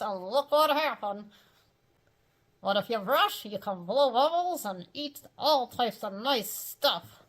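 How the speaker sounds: dopey ventriloquist puppet voice; Mortimer Snerd. Acted. Dummy lectures kids on teeth.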